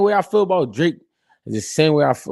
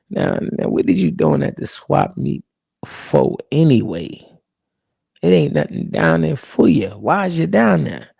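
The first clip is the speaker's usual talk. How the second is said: put-on old boss voice. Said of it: "the speaker said".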